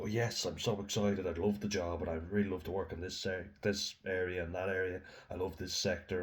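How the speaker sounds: lightly imitated job-hunter enthusiasm; bubbly and excited. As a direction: put on a touch of bubbly eagerness. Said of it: "you're trying to be real bubbly and excited".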